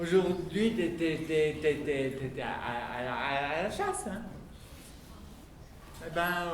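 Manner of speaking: put-on hesitant child, stumbling on words; stammering child. Child stammering to papa about the hunt. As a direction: stutter nervously.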